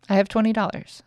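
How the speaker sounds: firm, believing statement; lifted, sure affirmation; confident affirmation. Shown as a demonstration. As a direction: say it like you believe it. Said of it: "so if you think that".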